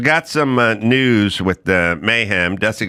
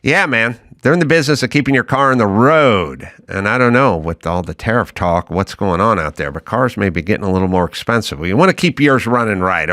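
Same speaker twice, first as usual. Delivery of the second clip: louder, casual pitch; ad read; 3 dB louder than usual. Acted. Host reading the O'Reilly sponsor spot, louder and casual. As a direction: talk up the sponsor like a friend.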